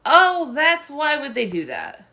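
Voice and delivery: loud, slow, high dismay; horrified. Real, not acted. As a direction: gasp out the realization. Horrified realization in game.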